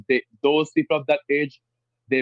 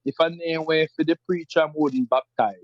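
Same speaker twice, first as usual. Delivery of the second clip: rural Jamaican patois; 3 semitones higher than usual. Shown as a demonstration. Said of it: "rural parts of Jamaica would say".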